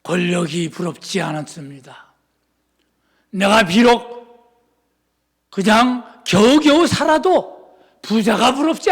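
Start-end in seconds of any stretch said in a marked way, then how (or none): none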